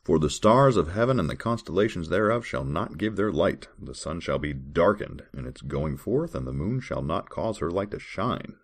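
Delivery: measured, formal Bible reading voice; scripture reading. Acted. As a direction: read the verse like a solemn lesson. Reads Bible verses aloud.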